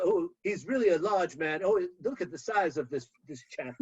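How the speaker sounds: lightly voiced British golf commentator; a hint of a posh sports announcer. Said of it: "he sounds like a golf announcer".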